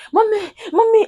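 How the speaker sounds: high mock child's cry for mommy; child shouting mommy. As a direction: mimic the scared little girl calling out. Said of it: "This girl started shouting".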